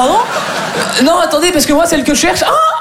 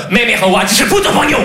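angry fake Chinese; 4 semitones higher than usual. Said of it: "Le chinois énervé".

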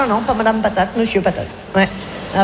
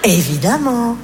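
slow words through laughter; laughing, drawn out; 3 semitones higher, much slower than usual. Real, not acted. Telling friend the slide prank, slow and laughing. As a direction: relish the prank plan.

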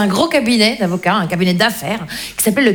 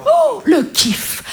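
thrilled; 12 semitones higher, much slower than usual. Retold or imitated. Child's thrill at the record.

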